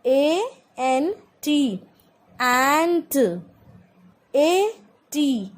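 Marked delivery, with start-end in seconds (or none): 2.4-3.2 ant with a long open 'ae'; sounded-out example. Shown as a demonstration. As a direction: stretch the vowel in ant. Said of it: "the sound of A". (ant में खुली 'ऐ' की आवाज़)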